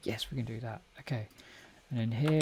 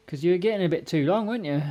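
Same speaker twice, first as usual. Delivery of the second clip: pet talk; 5 semitones higher, 4 dB louder, faster than usual. Real, not acted. Talking to the cat.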